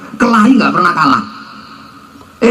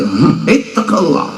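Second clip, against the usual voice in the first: mild preacher; 2 semitones lower than usual. Retold or imitated. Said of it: "khutbah pakai tongkat".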